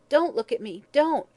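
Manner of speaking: high, loud cry, peaking on the repeat. A narrator's reading. Hag to the watching men, crying out. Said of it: "cried the hag".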